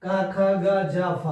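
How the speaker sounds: क, ख, ग, ज, फ each said with the nukta, throaty and heavy like Arabic or Persian; heavy nukta sounds. Shown as a demonstration. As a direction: give क ख ग ज फ the Persian weight of the nukta. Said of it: "थोड़ा भारीपन होता है".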